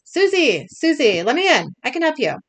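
moderately loud, high plea; acted yelling. A narrator's reading. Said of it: "knocks on the door and yells".

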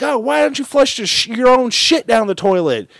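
very high, squeaky mocking girl; shrill-high cartoon mockery. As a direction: squeal it like a bratty kid.

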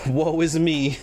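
slow, laughing mock lament; fake reluctance. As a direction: sigh it out like a fake tragedy. Joking about forced rewatch.

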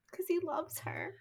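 hushed breathy aside; whispered. Real, not acted. Whispering to friends that he loves her. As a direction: whisper it like a secret swoon. Swooning aside about Darcy.

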